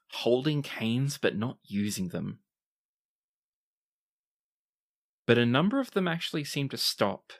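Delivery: measured storytelling with deliberate pauses; game master narration. Acted. Game master sets the scene.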